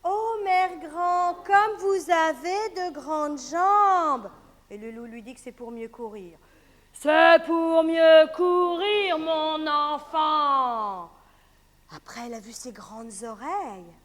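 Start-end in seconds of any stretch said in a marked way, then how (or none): 0.0-4.3 slow, louder, wondering; as Little Red Riding Hood. Acted. Girl marvelling at grandmother's legs. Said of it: "Comme si on était le petit chaperon rouge". 6.9-11.1 very slow, loud growl; wolf voice. Acted. Wolf answering the girl. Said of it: "on répond comme si on était le loup".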